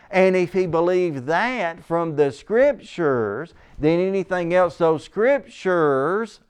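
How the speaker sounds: each "Scriptures" stretched out slowly; slow down and lean on "Scriptures"; emphatic stress. Real, not acted. Preacher arguing from what is written, emphatic. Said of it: "I'm emphasizing that a lot".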